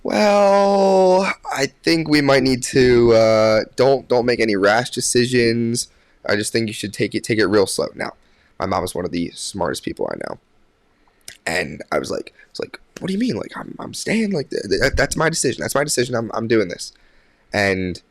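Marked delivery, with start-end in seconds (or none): 0.0-7.9 high, drawn-out "well", easing down into caution; slow, hesitant mock-motherly concern; a bit worried. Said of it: "little, little bit worried". 13.0-16.9 high-pitched, stammering pushback; mildly indignant insistence; insistent protest. Retold or imitated. Retelling his protest to his mom.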